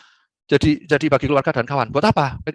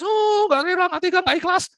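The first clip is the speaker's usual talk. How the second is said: high whiny voice of a clingy mourner; mock weeping mourner; 14 semitones higher than usual. Imitating crying relatives who can't let the dead go, whiny and high.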